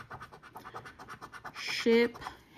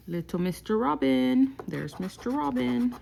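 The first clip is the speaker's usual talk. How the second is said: pleased little cheer; 5 semitones higher, 4 dB louder than usual. Real, not acted. Finding the robin symbol.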